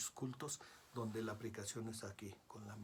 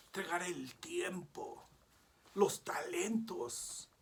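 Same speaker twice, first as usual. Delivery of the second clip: hushed, intimate whisper, slowing down; a fervent preacher's whisper; 5 semitones higher, 5 dB louder, slower than usual. Real, not acted. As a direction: breathe the words like a secret offering. Urging total surrender to God.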